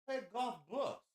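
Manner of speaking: high put-on manager voice; manager impression. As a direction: play the eager manager pleasing a customer. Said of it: "He's like".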